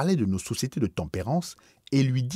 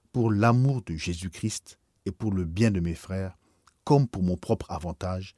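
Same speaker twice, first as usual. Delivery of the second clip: moved and trembling. Acted. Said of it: "d'une voix émue et tremblante".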